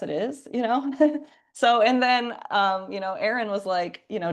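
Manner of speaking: usual speaking voice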